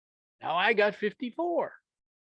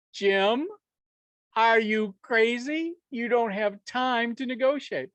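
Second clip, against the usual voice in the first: imitating the audience; 4 semitones higher, slower than usual. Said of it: "I had to say no".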